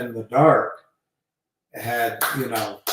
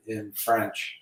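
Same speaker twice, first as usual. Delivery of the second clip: ordinary delivery, nothing marked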